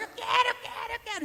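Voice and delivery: very high tantrum chant; a kid yelling for what he wants; whining child. Acted. Boy and father both on the floor, high whining chant. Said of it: "Um gritava".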